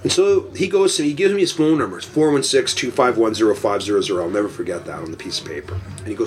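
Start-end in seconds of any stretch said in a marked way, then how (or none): none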